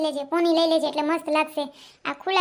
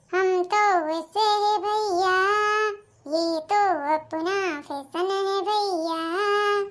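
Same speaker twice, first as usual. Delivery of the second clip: mock sassy; much slower than usual. Daughter-in-law mocks in broken Hindi.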